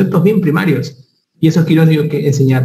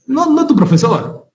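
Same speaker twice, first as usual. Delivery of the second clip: 1 broma; 9 semitones higher, slower than usual. Pretend. Broma sobre quien sopla.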